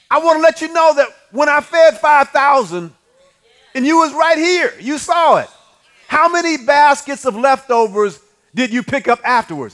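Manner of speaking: preaching build. Acted. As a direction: press the point home. Jesus pressing disciples, preaching.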